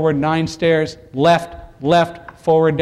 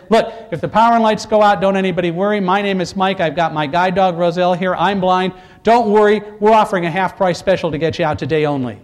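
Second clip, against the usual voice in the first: flight attendant voice. Retold or imitated. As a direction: reassure the crowd like cabin crew. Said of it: "I spoke loud enough for anybody who could hear me".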